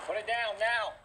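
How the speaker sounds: loud urgent police order; shouted surrender demands. Real, not acted. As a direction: yell it at full force. Officer confronting armed man.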